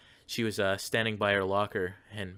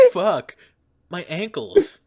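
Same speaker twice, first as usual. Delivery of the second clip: loud, high mock yell of pain; imitating pained yell; 11 semitones higher, 11 dB louder, slower than usual.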